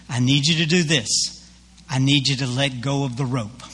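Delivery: lightly voiced God, measured and lowish; a hint of solemn divine command; booming voice of God. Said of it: "this loud booming voice".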